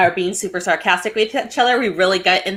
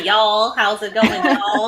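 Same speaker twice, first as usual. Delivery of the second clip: put-on Southern accent; much slower than usual. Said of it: "I'm trying to do it".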